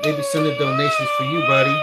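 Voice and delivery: ending in a squeaky high buddy; cooing excitement. Real, not acted. Dad cooing to his son about donations, squeaky high.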